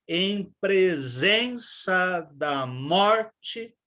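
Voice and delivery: very slow, beat by beat verse; slow chanted ternary rhythm; scanning the rhythm. Shown as a demonstration. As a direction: stretch out each stressed syllable. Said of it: "Por exemplo".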